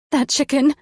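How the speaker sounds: put-on high, whiny child's complaint; whiny five-year-old. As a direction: whine like a scared little kid. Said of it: "that stupid fucking whiny voice of a".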